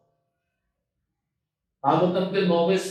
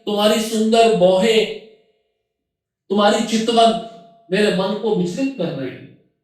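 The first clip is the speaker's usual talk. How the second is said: louder, higher quoted declaration of love; raised, declaimed words of an admirer; voiced enamoured suitor; 3 semitones higher, 4 dB louder than usual. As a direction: lightly act out a smitten man's declaration. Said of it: "अब यहां पे वो कह रहा है".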